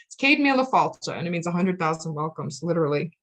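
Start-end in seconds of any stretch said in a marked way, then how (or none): 0.2-1.2 Céad Míle Fáilte said kade MEE-la FALL-cha; Irish pronunciation demo. Shown as a demonstration. Teacher answering how do you say that, demonstrating Irish pronunciation. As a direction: model Céad Míle Fáilte clearly, a little higher. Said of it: "How do you say that".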